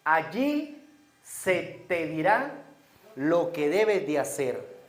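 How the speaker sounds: slow, weighty scripture reading; deliberate reading of the verse; slow emphatic reading. Shown as a demonstration. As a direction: lean on each word slowly. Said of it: "quiero que se enfoquen en esto".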